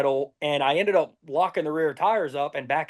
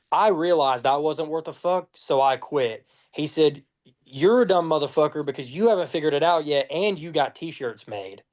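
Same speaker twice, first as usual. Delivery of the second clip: deadpan. Retold or imitated. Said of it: "straight face, no emotion".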